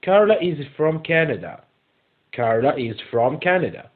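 slow, measured English, word by word; slow model reading. Shown as a demonstration. Teacher reading a true-or-false statement to pupils, slow model reading. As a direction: read slowly so learners can follow.

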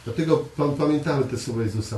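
ordinary talk, nothing marked

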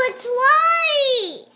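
sudden high, loud cry of surprise; surprised cry. Real, not acted. Child finds an uncoloured butterfly and cries out in surprise. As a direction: blurt it out, startled.

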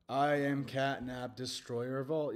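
low, slow villain declaration; menacing Catnap announcement. Acted. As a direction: intone it slowly and low. Speaks as the cat character.

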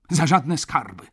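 high, loud wail of refusal; moaned refusal. A narrator's reading. Baroness refusing to keep her tenants, moaning loudly. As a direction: groan it out, high and emphatic. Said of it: "jęknęła pani baronowa".

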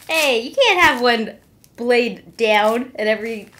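ordinary talk, nothing marked

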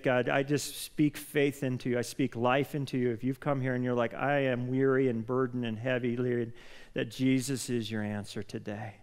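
earnest spoken prayer to the Father; leading a congregation in prayer. Acted. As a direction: pray over the church with conviction. Pastor leads congregation in prayer.

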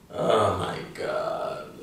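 slow breathy whisper; whispered oh my god. Shown as a demonstration. Teacher shows oh my god different ways, whispered. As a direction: breathe it out in awe. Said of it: "the same thing we can say in English".

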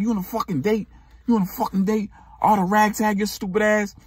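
mock jealous boyfriend. Jealous boyfriend confronting her.

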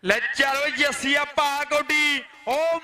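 loud excited kabaddi call; shouting commentary. Real, not acted. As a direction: shout it over the crowd. (ਉੱਚੀ ਆਵਾਜ਼ ਵਿੱਚ ਜੋਸ਼ੀਲੀ commentary)

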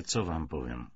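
ordinary delivery, nothing marked

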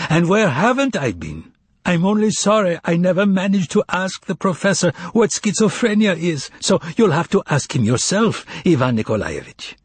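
a hint of a jovial eccentric, pitched high; lightly voiced amused foreigner. A narrator's reading. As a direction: play the amused stranger lightly, high and sweeping.

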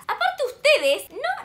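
slow, laughing it out. Real, not acted. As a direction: laugh through the words. (riéndose)

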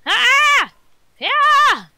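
high, loud hyped yelling; hyped gamer bro. Real, not acted. Hyped reaction during lag battle.

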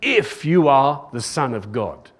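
slow line leaning on "If"; doubting stress on IF. Retold or imitated. Tempter questioning the Son of God, doubting emphasis on "If". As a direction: stress "If" to cast doubt, then fall. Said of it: "sowing doubt in his mind".

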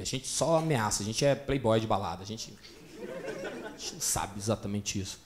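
scared men admitting they're no fighters; scared whisper-like mutter. Acted. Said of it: "os atenienses ficaram".

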